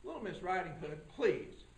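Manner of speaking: low, soft judge voice, impatient; a judge losing patience with the witness; low, quiet judge who wants her to get to the point; stern judge. Acted. Judge interrupts again.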